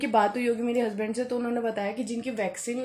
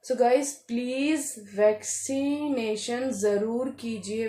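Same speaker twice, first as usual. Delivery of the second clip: earnest plea; much slower than usual. Real, not acted. Urging viewers to get vaccinated.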